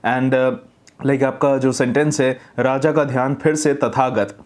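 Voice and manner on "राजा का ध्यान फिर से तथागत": mumbled jaw closed. Shown as a demonstration. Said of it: "मुंह बंद करके आप बोल रहे हैं".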